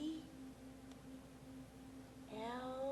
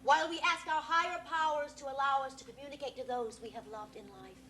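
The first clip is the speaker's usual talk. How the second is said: hushed, solemn spirit invocation; séance medium. Acted. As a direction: call the spirits in reverently.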